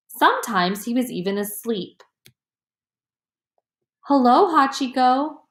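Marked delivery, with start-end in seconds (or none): 4.0-5.4 a kind, gentle hello to a tired friend. A narrator's reading. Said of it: "Yasuo said in a gentle voice".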